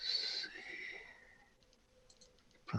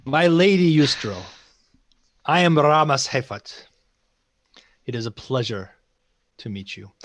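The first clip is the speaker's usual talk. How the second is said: louder, stately self-introduction; formal courtly greeting; 4 dB louder than usual. Acted. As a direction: announce yourself to royalty. Knight addresses the queen.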